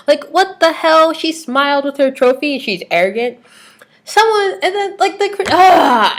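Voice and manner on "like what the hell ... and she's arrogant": what the hell, stretched out; incredulous. Real, not acted. Vlogger venting about critics, high outraged disbelief.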